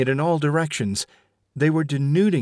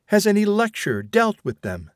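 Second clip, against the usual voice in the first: higher, insistent mother arguing; stern mother; 9 semitones higher than usual. Acted. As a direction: press the point like a scolding mother. Vashti keeps arguing.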